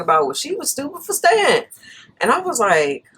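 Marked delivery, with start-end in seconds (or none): 0.3-1.6 mock dismissive boyfriend. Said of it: "Chris made some stupid comment".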